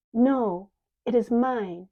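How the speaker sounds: put-on a girl clinging to the key, loud protest; protesting loudly. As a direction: claim it as hers, loud and insistent. Faith fights for the key.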